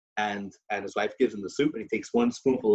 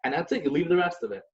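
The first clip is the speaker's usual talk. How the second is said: wife complaining; 4 semitones higher than usual. Retold or imitated. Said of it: "He goes".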